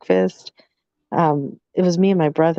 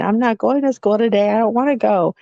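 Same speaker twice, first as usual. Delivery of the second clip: mock crying kid; 5 semitones higher than usual. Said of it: "And he starts crying".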